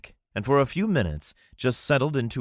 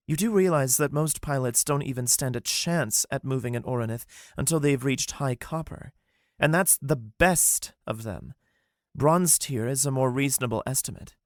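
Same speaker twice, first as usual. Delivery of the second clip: higher, incredulous explaining; lightly voiced Saith, sceptical; 6 semitones higher than usual. Saith explaining pilot tiers to Wolf. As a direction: correct him firmly.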